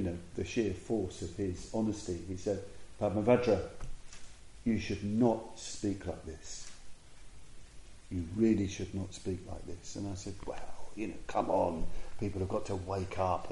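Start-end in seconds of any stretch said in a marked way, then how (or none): 3.0-10.0 direct, honest rebuke. Retold or imitated. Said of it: "he was very direct". 10.5-13.5 waffling self-defence. Retold or imitated. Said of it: "waffled on".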